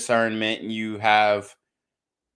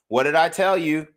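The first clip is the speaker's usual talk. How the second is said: ordinary talk, nothing marked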